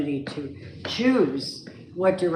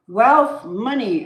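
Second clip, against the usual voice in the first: much higher and louder, bursting out with delight; excited burst; 6 semitones higher, 7 dB louder, much slower than usual. Real, not acted. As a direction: announce the first word like great news. Reads the card's meaning with enthusiasm.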